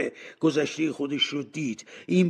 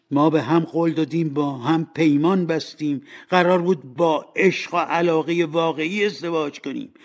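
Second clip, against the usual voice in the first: louder, insistent hurt appeal; emphatic lovers' reproach; reproachful; 4 semitones higher, 6 dB louder than usual. Acted. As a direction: press the broken promise on him. Fiancée reproaches him in a quarrel.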